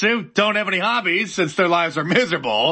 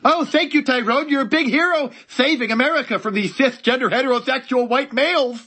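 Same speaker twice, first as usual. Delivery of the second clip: high, sing-song fake admiration; sarcastic mock gratitude; 3 semitones higher than usual. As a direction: gush over him, dripping with sarcasm. Sarcastic mock thanks to ad hero.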